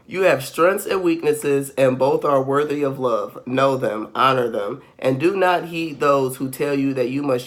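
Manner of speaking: measured, even read-aloud delivery; affirmation reading. Real, not acted. Host reading listeners a message on being different, measured delivery.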